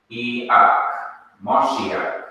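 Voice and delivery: iak on its own, then moshiak with a short O in mosh; sounding out moshiak. Shown as a demonstration. Teacher assembling the Hebrew word for Messiah syllable by syllable. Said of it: "this would be pronounced as a short O".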